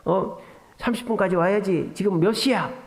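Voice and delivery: mildly annoyed nagging at wife; mock exasperated questioning; retold irritation. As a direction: imitate a husband's testy scolding. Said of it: "뭐 이런 짜증을 다 내는 거예요".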